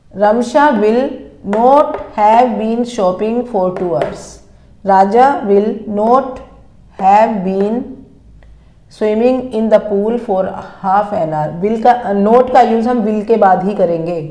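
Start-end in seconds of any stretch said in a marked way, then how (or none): 0.1-11.5 slow, word-by-word dictation of English sentences. Shown as a demonstration. Teacher dictating sentences to students, slow and careful. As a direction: read each word out slowly so students can write it.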